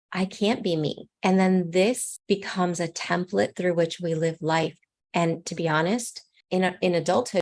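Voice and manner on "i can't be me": ordinary talk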